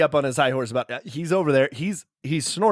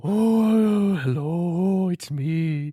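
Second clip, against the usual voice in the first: lightly voiced cartoon bear brother; silly character voice; much slower than usual. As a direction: put on a dopey cartoon voice. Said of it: "Derek started doing High Horse's voice wrong".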